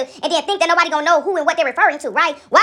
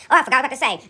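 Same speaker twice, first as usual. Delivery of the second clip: lower, lazy repeat of the fumbling line; mock caller repeat; 4 semitones lower, much faster than usual. Mocking the same caller again, a bit lower and lazy. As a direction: drag out the forgetful excuse again. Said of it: "I ain't gonna call you and say".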